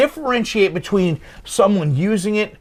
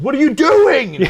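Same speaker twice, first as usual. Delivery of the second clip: shouting; 8 semitones higher, 7 dB louder than usual. Retold or imitated. Dragging driver from car.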